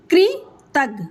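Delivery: कृतज्ञ slowly, split as कृ, तज्ञ; slow syllable demo. Shown as a demonstration. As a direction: hold the कृ of कृतज्ञ, then say तज्ञ apart. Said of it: "उसको slow से बोलेंगे आप". (कृतज्ञ धीरे-धीरे, कृ को अलग करके)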